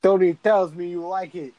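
lightly voiced movie mobster; a hint of mafia menace, played for laughs; mafia guy. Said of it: "a, like, mafia scene".

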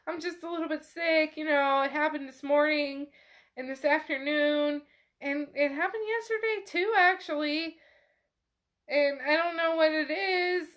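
lightly acted composure through tears; holding back tears. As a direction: retell her trying to keep control. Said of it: "control herself, shaking in the tears".

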